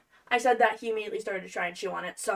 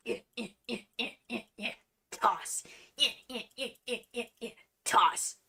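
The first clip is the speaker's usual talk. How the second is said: tipsy hacking noises; 4 dB quieter than usual. Acted. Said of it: "three beers in and I'm like".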